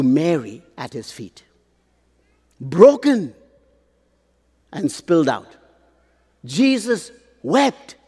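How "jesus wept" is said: "Jesus wept" said high and slow, rising on "wept"; high slow repeat. Shown as a demonstration.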